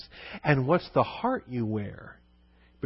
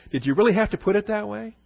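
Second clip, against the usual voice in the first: laughing mock complaint; 8 semitones higher, faster than usual. Joking complaint about verse.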